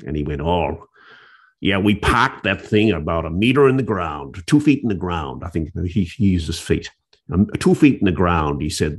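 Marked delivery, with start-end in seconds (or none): 0.4-5.4 lightly put-on Brooklyn accent; hint of a Brooklyn accent in a retold quote. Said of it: "he had a Brooklyn accent". 7.6-8.6 lightly put-on Brooklyn accent; hint of a Brooklyn accent in a retold quote. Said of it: "he had a Brooklyn accent".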